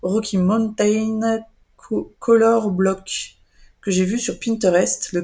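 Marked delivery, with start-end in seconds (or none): 0.0-3.4 slow careful English accent retry; English accent, deliberately spelling out "Rocky Mountain" slowly. Real, not acted. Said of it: "j'ai mon accent anglais qui est pourri".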